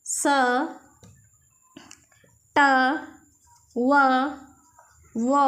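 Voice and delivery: each letter said as its bare sound with pauses between: ड, थ, ज, ह; letter sounds drilled one by one; phonics letter sounds. Shown as a demonstration. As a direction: recite ड, ह, क, ल, म as slow phonics sounds for a class. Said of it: "उसे हम बी न पढ़ के ब पढ़ेंगे".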